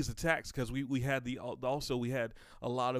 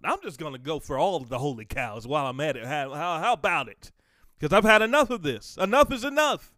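louder and higher until a shout; building to a preaching shout; 4 semitones higher, 10 dB louder than usual. Acted. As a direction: crescendo into the cry.

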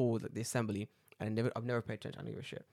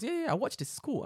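imitated bully; 12 semitones higher than usual. Voices the bully suddenly turning friendly.

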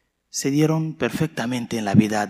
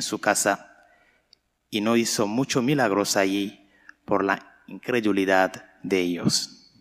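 solemn liturgical reading voice; Gospel reading; 3 semitones higher than usual. Real, not acted. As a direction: proclaim the Gospel to the church. Priest proclaims the Gospel.

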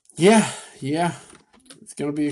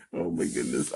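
breathy disbelief; 10 semitones lower, 9 dB quieter than usual. Real, not acted. Disbelief after laughing.

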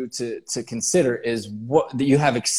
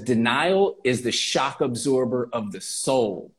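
slow quote; slower than usual. Shown as a demonstration. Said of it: "let that marinate".

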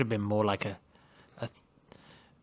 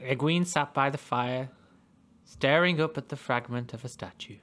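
story narration. Acted. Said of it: "I just wanna do a podcast with you reading now".

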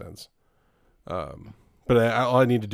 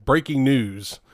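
slow, louder news anchor intro; newscaster voice; 5 dB louder, slower than usual. Shown as a demonstration. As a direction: announce it like breaking news. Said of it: "the news sound".

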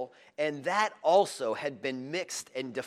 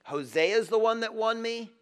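imagined Gomer; 5 semitones higher, 6 dB louder than usual. Acted. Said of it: "maybe Gomer thought".

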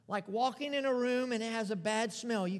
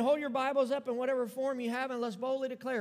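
rallying call; 2 semitones higher than usual. Acted. Pastor rallies the congregation, rousing. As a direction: stir them up to declare. Calls church to declare.

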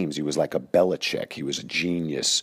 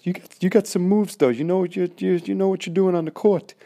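very high and loud odd coach voice; high-pitched strange voice; 13 semitones higher, 5 dB louder than usual. Retold or imitated. Coach praising the player but mocking his team, squeaky high voice. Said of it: "And that's how he spoke".

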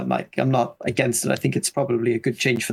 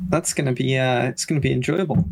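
unenthusiastic. Real, not acted. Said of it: "You can sound more excited about it".

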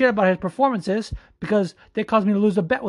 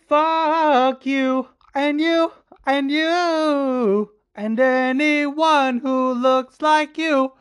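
angry rant; 5 semitones higher, much slower than usual. Real, not acted. Ranting at the fans.

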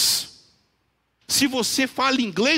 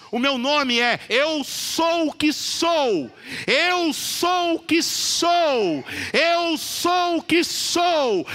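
slow, grand proclamation, pitch rising higher; God speaking to Moses; 4 semitones higher, slower than usual. Retold or imitated. God answering Moses at the bush, slow and majestic. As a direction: declare each word slowly, like a voice from heaven. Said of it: "Sabe o que ele fala?".

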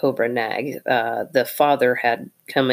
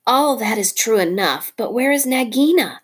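lightly raised, urgent mongoose; a hint of a brisk little hero pressing for answers; 7 semitones higher, 3 dB louder than usual. Rikki Tikki the mongoose.

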